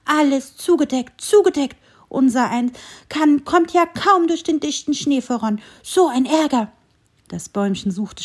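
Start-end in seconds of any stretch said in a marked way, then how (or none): 0.1-1.2 high, louder squirrel complaining about snow; first "zugedeckt" said high and annoyed; grumbling squirrel. A narrator's reading. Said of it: "ärgerliches Stimmchen". 1.2-1.8 "zugedeckt" repeated even higher and louder, falling; exasperated squirrel repeat. A narrator's reading. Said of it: "ärgerliches Stimmchen". 2.1-6.7 high, louder little grumbling voice; annoyed squirrel voice. A narrator's reading. Squirrel complains.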